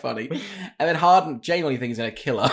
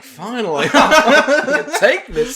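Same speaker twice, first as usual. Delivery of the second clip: mock overjoyed; 9 semitones higher, 6 dB louder, much slower than usual. Mock relieved listener.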